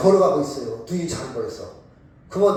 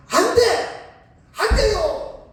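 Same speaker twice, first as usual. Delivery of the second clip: shouting no; 14 semitones higher than usual. Shown as a demonstration. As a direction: shout them back from the edge. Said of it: "막 이렇게 소리를 치야 돼".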